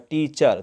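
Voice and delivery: टीचर in two slow beats, टी then चर; टीचर broken in half, syllable by syllable; split into syllables. Shown as a demonstration. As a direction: say टीचर with a long gap between टी and चर. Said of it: "बोलने के लिए बीच में gapping".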